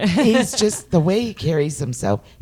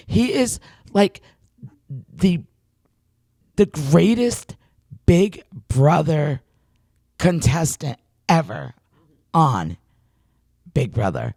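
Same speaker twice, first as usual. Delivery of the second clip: excited. Retold or imitated. Gushing over the celebrity.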